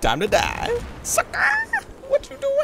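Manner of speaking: high, loud trash talk; gleeful taunt. Real, not acted. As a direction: crow it at the beaten enemy. Taunts enemy in shooter game.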